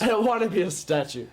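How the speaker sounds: high-pitched mock protest; whiny hero imitation. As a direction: complain like a reluctant hero, hammed-up. Mimicking the unwilling movie hero.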